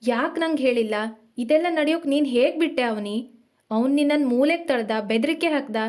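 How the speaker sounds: scolding through gritted teeth. Acted. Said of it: "ಹಲ್ಲು ಬಿಗಿ ಹಿಡಿದು ಅವನು ಗದರಿಸಿದ".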